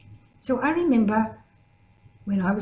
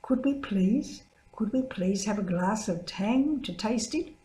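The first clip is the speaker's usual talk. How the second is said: humble; 3 dB quieter than usual. Retold or imitated. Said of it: "humbly we said".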